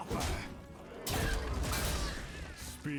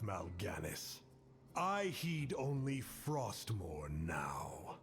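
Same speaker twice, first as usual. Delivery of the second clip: cold whisper; 4 semitones lower than usual. Acted. Game cursed prince voice line.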